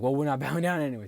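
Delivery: fast, loud, laughing refusal; laughing defiance. Retold or imitated. Boys refusing to bow, laughing fast. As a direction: blurt it out through a giggle. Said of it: "And he's like".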